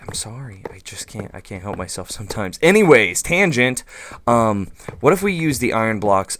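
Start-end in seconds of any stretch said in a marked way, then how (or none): 0.0-2.6 soft, half-whispered mock apology; sheepish whisper. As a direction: whisper an embarrassed sorry. Sheepish apology to imagined critics.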